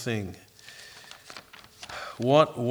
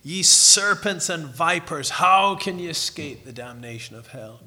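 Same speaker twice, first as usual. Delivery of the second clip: cutting hard words; 3 semitones higher, 6 dB louder than usual. Retold or imitated. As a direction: condemn the Pharisees with weight. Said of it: "Cutting hard words".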